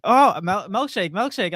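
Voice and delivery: lightly imitated non-English speaker's accent; a hint of a non-native English accent; imitated foreign accent. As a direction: echo the order in a mock foreign accent. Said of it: "I'm gonna do the accent".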